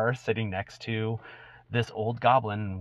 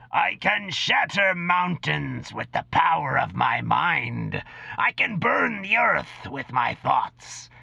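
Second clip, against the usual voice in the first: dry cracking voice; 2 semitones higher than usual. Acted. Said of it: "lets out a dry, cracking voice".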